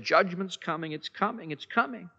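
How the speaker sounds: hushed, fading warning. Retold or imitated. Jeremiah warns of judgment.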